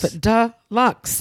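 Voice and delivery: playful relish. Pretend. Friend relishing the idea of a spare bedroom, drawn-out relish. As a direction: savour it slowly, syllable by syllable.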